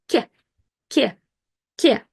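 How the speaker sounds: K said soft, as before Russian Е. Shown as a demonstration. Teacher modelling a softened Russian K, careful. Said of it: "So it's kinda like".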